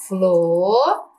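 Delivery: "Floresta" slowly split as flo, res, ta; syllable by syllable. Shown as a demonstration. Teacher forms the syllables for pupils, "Floresta" in separate pieces. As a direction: pause long between the syllables of "Floresta". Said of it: "ó, as sílabas".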